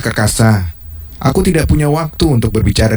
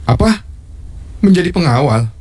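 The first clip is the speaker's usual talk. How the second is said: surprised; 7 semitones higher than usual. Acted. King shocked by request.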